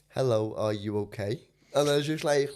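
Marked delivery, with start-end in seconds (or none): 0.1-1.4 low, soft, measured greeting; slow careful speech. Shown as a demonstration. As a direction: speak with effort so you're understood. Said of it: "'cause I'm speaking that slow".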